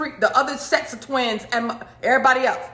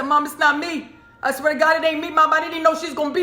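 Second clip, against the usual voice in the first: desperate pleading; 5 semitones higher, faster than usual. Retold or imitated. Pleading innocence to mom.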